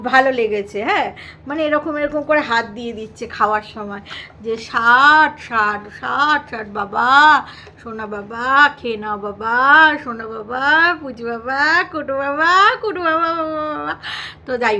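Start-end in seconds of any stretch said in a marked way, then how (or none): 4.7-13.9 put-on cooing baby talk. Wife coos to husband while feeding.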